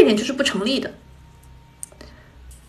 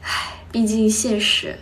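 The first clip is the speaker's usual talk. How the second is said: ordinary talk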